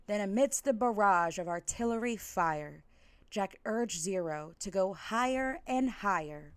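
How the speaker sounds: rhythmic, sing-song rhyming read-aloud; lilting holiday storyteller; storybook narration. A narrator's reading. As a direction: read it like a bedtime story to kids.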